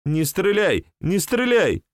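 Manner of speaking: rising panicked begging; frightened plea. Acted. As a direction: beg for your life, voice climbing. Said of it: "испуганный, но очень знакомый голос".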